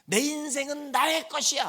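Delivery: mock a know-it-all teen; teen talking back to mom, sassy; bratty teenager. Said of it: "뭐 이러면서".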